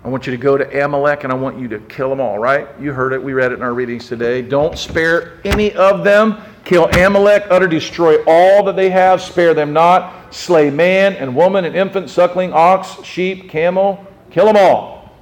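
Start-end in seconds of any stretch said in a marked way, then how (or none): 4.4-15.1 commanding voice of God. Acted. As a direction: proclaim the order to kill them all. God's command voiced from scripture.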